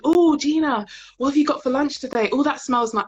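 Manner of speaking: nosy colleague. Retold or imitated. Mimicking coworkers fussing over her lunch, gushing. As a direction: ham up a prying colleague.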